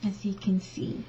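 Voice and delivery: whispered aside while showing the dress. Real, not acted. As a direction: breathe it softly to the camera.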